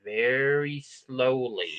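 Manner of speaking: exaggerated crawl, each word stretched out; very slow Midwestern talk. Shown as a demonstration. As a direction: demonstrate absurdly slow corn-country speech. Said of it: "People start speaking very slowly".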